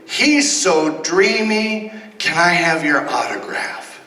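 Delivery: put-on high, slow swooning fan girl; 1950s teeny bopper voice. Shown as a demonstration. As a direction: gush like a starstruck fifties teen. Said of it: "best nineteen fifties teeny bopper voice".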